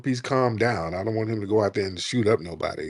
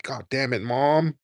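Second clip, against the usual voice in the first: rising whiny mock plea, climbing higher; hammed-up exasperated son; mock frustration; 5 semitones higher, 3 dB louder, slower than usual. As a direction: imitate the kid groaning at his mom, going up in pitch. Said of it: "And he's like".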